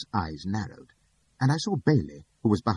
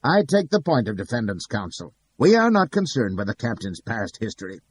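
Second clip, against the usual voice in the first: snapped; 4 semitones higher, 5 dB louder than usual. Acted. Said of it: "he shook his head and snapped".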